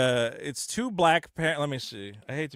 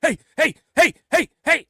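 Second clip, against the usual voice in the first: higher, louder, hammy hey hey; goofy calling out; 10 semitones higher, 6 dB louder than usual. Retold or imitated. Party goof hollering at the guests, loud and silly. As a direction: bounce around yelling for attention.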